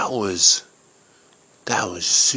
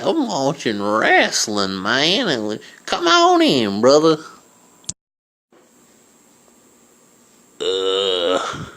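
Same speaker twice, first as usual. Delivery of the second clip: lazy neighbor; 2 semitones higher than usual. Acted. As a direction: settle back into the lazy neighbor voice. Neighbor Billy Bob voiced.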